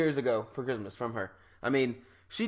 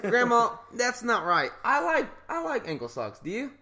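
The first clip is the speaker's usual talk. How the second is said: higher voice, laughing through the words; laughing protest; 7 semitones higher than usual. Real, not acted. Laughing at his friend over ankle socks, higher and breaking up.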